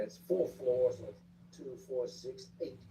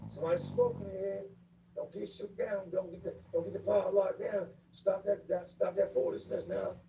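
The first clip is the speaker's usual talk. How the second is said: guard's warning; 8 semitones higher than usual. Retold or imitated. Guards doing count, scolding.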